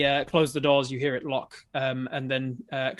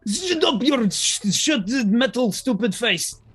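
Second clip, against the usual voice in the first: much higher, loud, slow angry jailer; furious jailer yell; 9 semitones higher, 8 dB louder, slower than usual. Acted. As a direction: spit the insult out in a rage. Jailer rages at prisoner.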